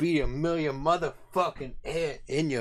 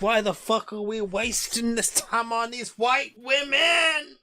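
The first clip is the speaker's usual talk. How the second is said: a higher, mock-exasperated boss; imitating Tom Homan; 4 semitones higher than usual. Tom Homan barging in, mildly mock exasperated. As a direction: play the annoyed boss barging in. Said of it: "Tom Homan pops in and says".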